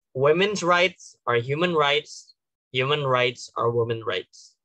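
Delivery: slow, weighty quotation; quote opening. Shown as a demonstration. Delegate opening a speech with a famous quote, slow and weighty. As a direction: let each word of the quote land slowly. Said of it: "kalau quotes ya".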